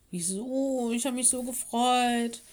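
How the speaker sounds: high, disappointed pupil's complaint; protesting child. A narrator's reading. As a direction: complain like a let-down schoolchild. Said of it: "begannen leise zu protestieren".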